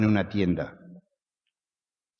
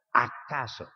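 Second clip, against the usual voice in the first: "acaso," repeated softer, almost to himself; soft echo; 6 dB quieter than usual. Acted. Preacher echoing his own question, softly. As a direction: let "acaso," drop away quietly.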